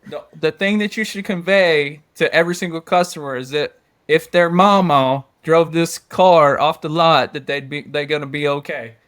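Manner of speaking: put-on light Cajun accent; lightly put-on Cajun voice. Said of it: "I'm gonna use my Cajun voice".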